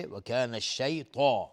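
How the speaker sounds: الشیطان with a thick, full "taa"; heavy emphatic ta. Shown as a demonstration. Teacher showing an elevated letter, thick recited ta.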